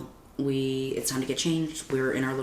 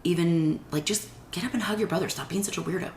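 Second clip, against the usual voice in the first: higher-pitched inner voice telling herself off; scolding inner voice; 4 semitones higher than usual. Retold or imitated. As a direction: nag yourself to just get up. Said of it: "I am like".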